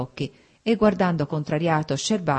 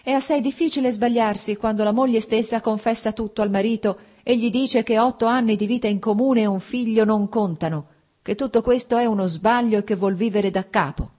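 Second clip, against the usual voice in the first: louder, higher angry outburst; furious; 6 semitones higher, 4 dB louder than usual. A narrator's reading. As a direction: lash out in fury over her confession. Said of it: "disse lui furioso". (furioso, più forte e acuto)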